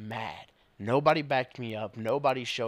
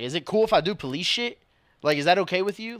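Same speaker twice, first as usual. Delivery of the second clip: sarcastic; 9 semitones higher, 8 dB louder than usual. Retold or imitated. Sarcastic retort to honking driver.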